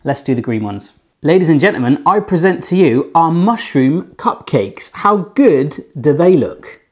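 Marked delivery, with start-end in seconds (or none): 1.2-6.8 grand presentation. Acted.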